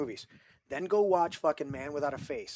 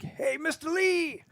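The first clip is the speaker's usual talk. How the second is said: much higher, slow, odd little sing-song greeting; quirky character voice; 13 semitones higher, slower than usual. Retold or imitated. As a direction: ham up a quirky old character saying hello. Imitating a quirky character's line.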